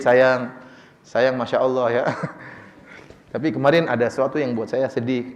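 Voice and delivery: relaxed, low sweet-talk to a spouse; santai. Acted. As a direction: coax gently, like mid-massage, playfully acted. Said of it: "dalam kondisi santai baru sampaikan". (bujukan santai kepada istri)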